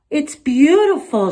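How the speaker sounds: high, loud and slow in wonder; delighted exclaim. A narrator's reading. Shoshana marvels at grandma's paper cut, high and loud. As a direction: gasp it out in awe. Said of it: "she exclaimed".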